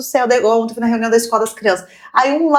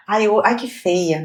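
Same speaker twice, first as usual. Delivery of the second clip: mock self-criticism; 5 semitones lower, much slower than usual. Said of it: "é fácil falar".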